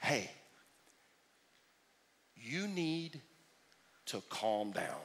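soft, low, patronising hush; mock soothing "calm down"; condescending calm down. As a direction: talk down to them gently. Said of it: "some genius in your life walks up to you, and they say".

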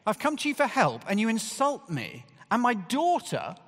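high, loud hammed-up outrage; indignant retort. Preacher voicing an imagined indignant mother, mock outrage. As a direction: play the offended mother who never said it. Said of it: "She doesn't get indignant".

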